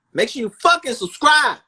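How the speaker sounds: "fucking" yelled high and loud; shouted demand. Real, not acted. Host yelling at listeners to subscribe, loud and high. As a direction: bark "Make sure you fucking subscribe" up high.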